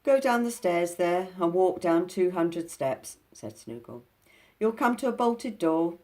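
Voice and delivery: bargaining creature, pushy and loud; Snoogle voice. Acted. Snoogle's voice in story.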